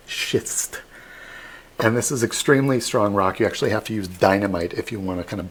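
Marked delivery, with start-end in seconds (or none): 0.1-0.8 whispered schist. Shown as a demonstration. Guide clarifying the rock's name, whispering "schist". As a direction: whisper "schist" softly, voiceless, like a near-swear. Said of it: "not the bad word".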